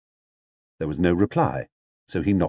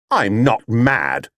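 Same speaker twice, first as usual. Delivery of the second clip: indignant; slower than usual. Acted. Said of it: "said Paddington indignantly".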